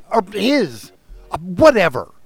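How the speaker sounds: high, careless brush-off; dismissive old woman. Retold or imitated. The old woman shrugs off his question in a high voice. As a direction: toss off the whatever. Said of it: "And she goes".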